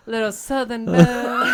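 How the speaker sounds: high, laughing southern belle. Retold or imitated. Remembering Leia, high laughing belle voice. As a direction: toss it up high with a giggle. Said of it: "she was like".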